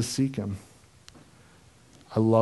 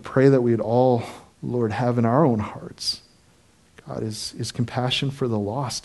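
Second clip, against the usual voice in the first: prayer. Acted. Closing prayer.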